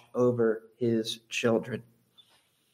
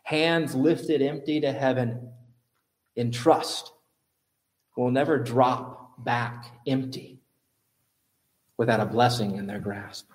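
repeating the quote for the congregation, slow and gentle. Shown as a demonstration. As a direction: let each phrase land. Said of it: "I'll repeat it".

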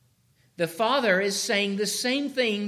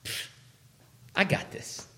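scoffing, brushing off advice; a know-it-all waving off correction; mock careless brush-off; dismissive fool; 4 semitones higher than usual. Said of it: "what does a fool do".

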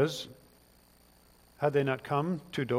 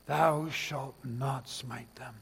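mock biblical prophet; 2 semitones lower, 6 dB quieter, much slower than usual. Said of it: "Elisha says something very Christ-like".

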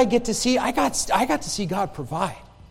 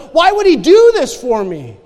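grateful question; 4 semitones higher, 8 dB louder than usual. Retold or imitated. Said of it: "it changes to the".

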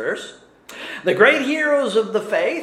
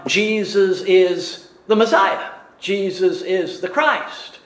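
a little weight on the verb is; stress on IS. Shown as a demonstration. Preacher showing where the verb goes, leaning on is. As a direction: lean on is, a verb placed before Christ. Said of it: "the emphasis on".

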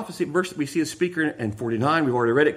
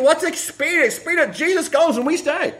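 voicing Caiaphas; 11 semitones higher, 3 dB louder than usual.

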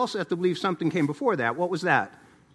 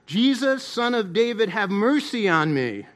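mildly raised, pleading cry; 3 semitones higher, 4 dB louder than usual. Acted. Blind man calling out to Jesus, mildly raised cry. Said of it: "he began to cry out".

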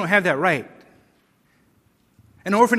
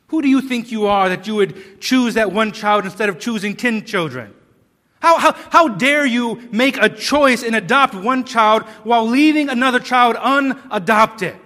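mock scolding; 2 semitones higher, 6 dB louder than usual. Preacher voicing critics of an adopting family, scolding indignantly. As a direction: act out an outraged telling-off, growing more forceful. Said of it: "we don't scold that family and say".

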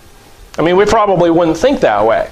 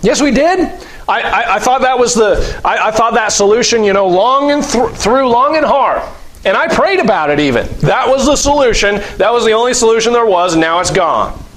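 mock protest; 5 semitones higher than usual. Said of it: "And you say".

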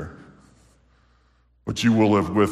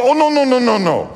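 amused denial; 12 semitones higher, 4 dB louder than usual. Retold or imitated. Waitress laughing off dog question.

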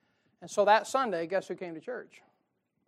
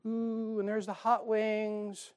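savoring; 5 semitones higher, slower than usual. Retold or imitated. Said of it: "I'm going over".

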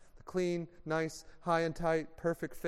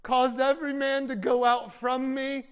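emotional yell; 5 semitones higher, 5 dB louder than usual. Acted. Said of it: "emotionally yelled".

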